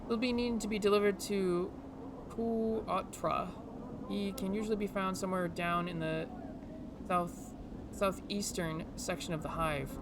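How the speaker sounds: lightly put-on Scottish-Irish brogue; game character with a loose Scottish-Irish lilt; Scottish-Irish accent. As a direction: plead for a favor in a mild Scottish-Irish accent. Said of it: "almost like a Scottish Irish accent".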